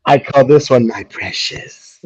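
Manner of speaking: very high, cooing; doting owner. Acted. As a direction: coo it like a creepy collector. Mocking cat owner talk.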